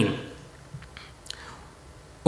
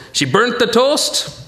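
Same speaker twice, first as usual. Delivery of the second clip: higher, slow, badly faked Jewish accent; 5 semitones higher, slower than usual. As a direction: put on a drawn-out amateur Jewish accent. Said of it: "That's my Jewish accent".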